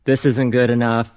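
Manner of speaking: mildly hammed-up public grumbling; grumpy town crier. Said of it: "like, the grumpy guy in the middle of town square".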